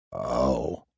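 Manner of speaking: the breath knocked out of you; stunned gasp of a word. A narrator's reading. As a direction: Hap realizes he has been stabbed. Hap stabbed, stunned.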